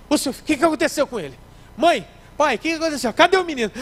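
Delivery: high, loud frantic questions; panicked yelling. Acted. A panicked parent yells at the doctor about the child, high and loud.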